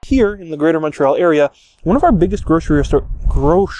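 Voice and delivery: stumbling over words with frozen lips. Real, not acted. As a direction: lips too cold to shape the words. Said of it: "my lips are freezing and I can't fucking say things".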